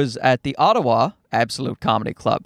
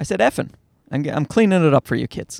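ordinary talk, nothing marked

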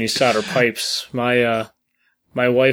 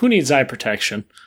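usual speaking voice

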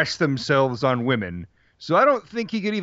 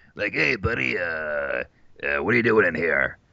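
weird monster voice, much lower, slower; 8 semitones lower than usual. Speaker imitates how a slimy-faced monster in a cave talks, weird monster voice. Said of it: "he talks so weird too".

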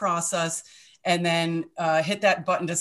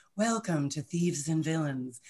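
put-on charming host voice, much quieter; 7 dB quieter than usual. Describing a podcast host's welcome line, imitating a charming podcast host. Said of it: "he's got a little bit of a like charms and he's like".

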